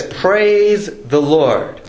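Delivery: slow, solemn praise; slow drawn out praise. Retold or imitated. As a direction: stretch each word out slowly. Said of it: "it says".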